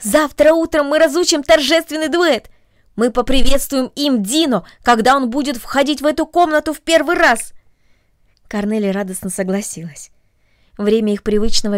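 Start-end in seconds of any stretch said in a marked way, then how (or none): 0.0-7.5 put-on eager girl. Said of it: "сказала Агнес".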